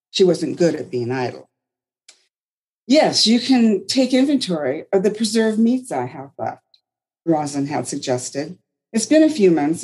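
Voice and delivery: expressive read-aloud storytelling; storyteller reading. Acted. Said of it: "so I read like a storyteller".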